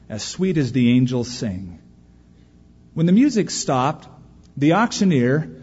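measured verse narration; poem recitation. Acted. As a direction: tell the poem's scene with care.

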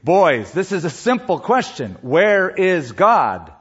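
firm pastor, drawn-out final question; mildly stern, weighting each word at the end; a little firmer. Acted. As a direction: press the question slowly and firmly. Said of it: "said in a little firmer voice".

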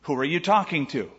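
normal talking voice

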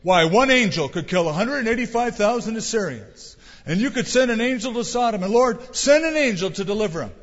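high, loud urgent petition to God; fervent pleading prayer. Retold or imitated. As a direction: beg the Lord with rising fervor. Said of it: "I imagine maybe they were praying something like".

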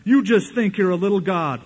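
mock put-down. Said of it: "when they're mad".

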